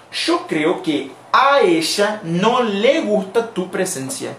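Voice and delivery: slow, careful Spanish model sentence; slow translation. Shown as a demonstration. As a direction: spell it out slowly for the students. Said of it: "¿cómo se traduce eso al español?". (frase de ejemplo, lenta y clara)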